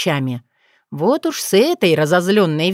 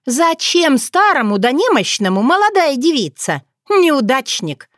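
higher, mocking contempt; scornful snort; 6 semitones higher than usual. Otrada mocking Koschei to Bogdan, scornful. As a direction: sneer at the old sorcerer. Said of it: "фыркнула она".

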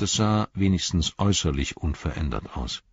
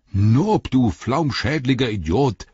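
loud, raised-pitch scolding; exasperated innkeeper yelling at his helper; angry shout; 6 semitones higher, 5 dB louder, slower than usual. A narrator's reading. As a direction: bawl out your servant. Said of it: "rief er".

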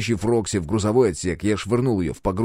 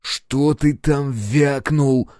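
slow menacing challenge; slow threat; 5 semitones higher, 3 dB louder, much slower than usual. Acted. Captain advances on the engineer, slow menace. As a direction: loom over him, slow. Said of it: "угрожающе надвинулся".

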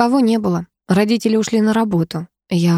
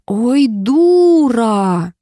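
long, stretched-out drawl, a bit louder; drawn out; 4 semitones higher, 4 dB louder, much slower than usual. A narrator's reading. Girl drawls at her friend, long and stretched out. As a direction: drag the words out slowly and teasingly. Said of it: "протянула я".

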